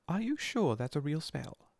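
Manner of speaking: put-on bossy girl. A narrator's reading. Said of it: "She had a bossy sort of voice".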